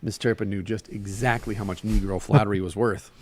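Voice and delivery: animated story reading with Southern dialogue; story narration. A narrator's reading. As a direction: read the tale aloud, giving each figure life. Reads a short story aloud.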